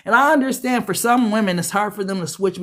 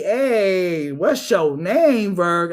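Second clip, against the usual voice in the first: slow flirty pickup line; much slower than usual. Pretend. Flirting as admirer.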